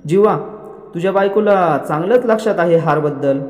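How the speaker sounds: mild retold jibe; taunting. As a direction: needle him with a pointed remark. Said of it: "जीवाला टोमणा मारत असते".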